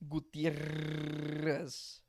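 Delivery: Gutierrez, slow and drawn out in Spanish; Spanish pronunciation. Shown as a demonstration. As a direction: Gutierrez said goo-tee-EH-rres. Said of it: "How do you say your last name?".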